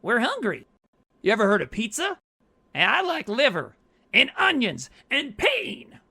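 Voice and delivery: quoting an angry movie line; angry yelling. Retold or imitated. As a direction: shout down the attacker. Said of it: "Ken Foree's waving the axe at Tex and goes".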